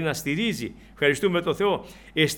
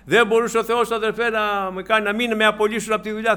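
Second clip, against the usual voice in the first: lightly acted, higher-pitched protest; mock complaint; 5 semitones higher, 5 dB louder than usual. Preacher imitating a believer questioning God over a lost job, mock complaining. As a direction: protest in a raised, aggrieved voice.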